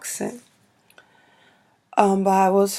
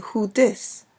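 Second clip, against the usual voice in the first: brief, casual New York "Who dis?"; New York accent; 2 semitones higher than usual. Shown as a demonstration. Vlogger showing how siblings answer calls, quick New York accent. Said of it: "New York is quick and fast".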